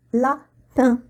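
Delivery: "Lapin" with the final vowel pushed through mouth and nose; nasal vowel demo. Shown as a demonstration. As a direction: show the nasal "in" of "Lapin" clearly. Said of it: "faire sortir l'air de ma bouche et de mon nez". ("Lapin" avec la voyelle nasale bien marquée)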